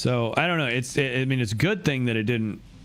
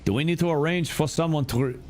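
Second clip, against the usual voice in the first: put-on botched German accent, a bit higher; failed German accent; 6 semitones higher than usual. Streamer tries a German accent for a game character, botched German accent. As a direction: try a German accent and miss it. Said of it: "no, that's not German".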